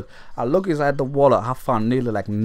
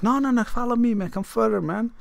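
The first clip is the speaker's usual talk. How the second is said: higher, coaxing; 9 semitones higher than usual. Retold or imitated. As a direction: lead him on in a raised voice. Luring him down the alley.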